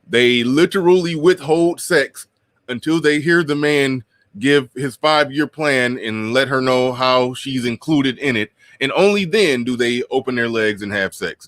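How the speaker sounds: high, mocking retelling of their story. Mocking women's version of events.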